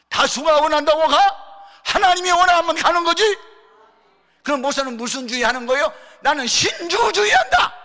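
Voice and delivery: very loud, high-pitched roar; full-force preacher's shout; impassioned shouting. Retold or imitated. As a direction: thunder the retort at the challengers. Retells his fierce retort to challengers.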